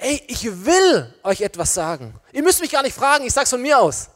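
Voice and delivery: bursting to tell, nobody has to ask; enthusiastic bold declaration. Acted. Inspired Peter volunteering to speak to the crowd, enthusiastic. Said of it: "begeisterten Menschen".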